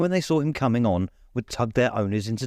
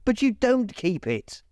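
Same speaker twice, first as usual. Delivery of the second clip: gentle reproach; 11 semitones higher than usual. Acted. Nephew reproaching uncle.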